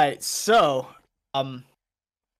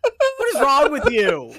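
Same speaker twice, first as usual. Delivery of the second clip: disgusted; 9 semitones higher, 5 dB louder, slower than usual. Real, not acted. Disgusted reaction to joke.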